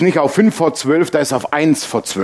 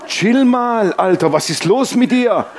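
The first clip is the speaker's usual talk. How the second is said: laughing calm-down. Retold or imitated. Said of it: "Ich so".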